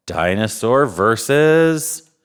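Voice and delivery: slow, drawn-out announcer call; slow showman announcing the next match; announcer build-up. Acted. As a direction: stretch versus like a ring announcer. Drawn-out game-show announcement.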